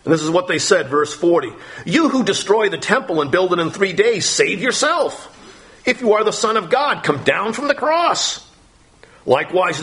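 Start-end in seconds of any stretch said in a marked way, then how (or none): 1.8-8.4 mocking passersby. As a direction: sneer up at the man on the cross. Passersby mocking Jesus on cross.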